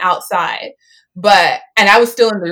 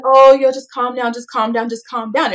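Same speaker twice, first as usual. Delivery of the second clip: urgent calm down; 4 semitones higher, 3 dB louder than usual. Retold or imitated. Crowd calming angry speaker.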